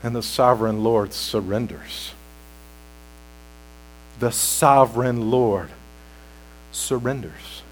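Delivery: low, soft preacher's voice; subdued, solemn awe; hushed reverence. Real, not acted. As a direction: let it sink in quietly, with long pauses. Hushed awe after the climax.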